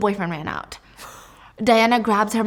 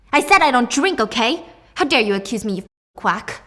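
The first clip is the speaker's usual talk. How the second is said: indignant denial; 3 semitones higher, 5 dB louder than usual. Acted. Mom denies drinking to the doctor, indignant. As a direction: snap back, then ease slightly. Cornered mother snaps at doctor.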